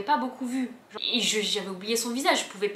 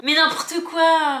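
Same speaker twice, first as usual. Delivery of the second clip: stunned disbelief; 7 semitones higher, 11 dB louder, much slower than usual. Retold or imitated. Retold stunned reaction.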